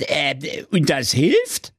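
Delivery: slow, doubtful low question; disbelieving. Acted. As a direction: ask in sheer disbelief. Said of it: "fragte ungläubig".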